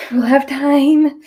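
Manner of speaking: high, loud and slow, repeated; goofy reassurance. Pretend. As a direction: say it again, goofy and drawn out. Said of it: "I like to act goofy like that to calm myself down".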